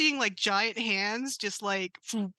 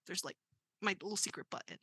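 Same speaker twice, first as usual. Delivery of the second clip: much softer confiding; hushed secret; 3 semitones lower, 10 dB quieter, faster than usual. Acted. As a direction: drop the voice for a secret. Robot shares secret.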